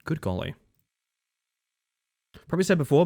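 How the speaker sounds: ordinary talk, nothing marked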